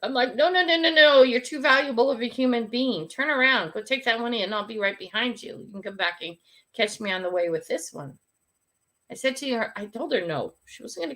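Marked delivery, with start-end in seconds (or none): 0.3-1.2 firm no. Retold or imitated. Stopping helper carrying bags. 1.2-8.2 bossy grandma. Retold or imitated. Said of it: "The grandma, bossy".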